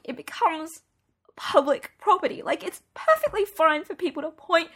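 high, loud tearful tirade; crying rant. Acted. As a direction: pour it all out while the tears come. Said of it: "I was barely understandable through the crying".

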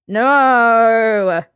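desperate denial. A narrator's reading. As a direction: deny it, desperate now. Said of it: "Geralt said desperately".

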